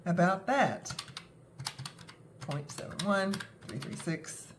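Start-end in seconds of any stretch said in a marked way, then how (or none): 2.4-4.5 softly murmured figures; absent muttered counting. Real, not acted. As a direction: count under your breath while tallying. Keying figures into the calculator.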